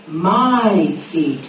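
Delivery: My feet with the weight on My, falling; My feet, My pressed and dropping low; stress on MY. Shown as a demonstration. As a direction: lean hard on My, not feet. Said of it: "Notice he doesn't say".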